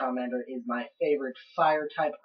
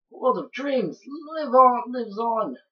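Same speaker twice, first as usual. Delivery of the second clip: grand proclamation; 9 semitones higher, 6 dB louder, slower than usual. Acted. Reads game line grandly.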